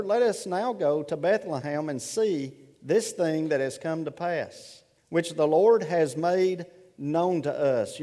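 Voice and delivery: measured, reverent Bible reading; scripture reading. Acted.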